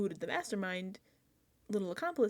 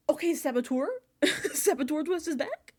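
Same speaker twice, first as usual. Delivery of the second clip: higher, louder, laughing disbelief; excited disbelief; 7 semitones higher, 6 dB louder than usual. Retold or imitated. Fan reacting to the Saboteur twist returning, excited. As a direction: squeal it out like a thrilled fan.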